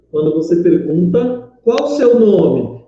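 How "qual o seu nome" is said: slow, higher question swelling on "seu nome"; question intonation. Shown as a demonstration. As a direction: ask it clearly, "nome" drawn out and falling from a high pitch. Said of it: "você tem uma entoação". (entoação de pergunta, lenta, com "nome" alongado)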